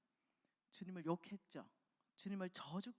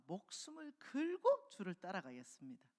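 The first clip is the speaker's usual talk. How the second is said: Peter's vow; 7 dB louder than usual. Acted. Peter vows to follow Jesus.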